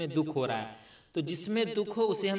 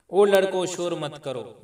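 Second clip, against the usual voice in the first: put-on slow, louder call to the boys; 6 dB louder, slower than usual. Shown as a demonstration. Teacher calling out to noisy boys, slow and louder. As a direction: call out across the room to hush them. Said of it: "पुकार के कहा जाए".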